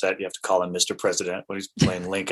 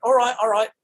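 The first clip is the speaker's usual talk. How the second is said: Ferdinand imitated; 12 semitones higher, 3 dB louder than usual. Ferdinand agreeing.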